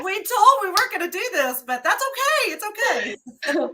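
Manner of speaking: high, hurried, voice rising with emotion; emotional, teary. Real, not acted. Co-host to Jill after both break down, tearful. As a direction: reassure through welling tears.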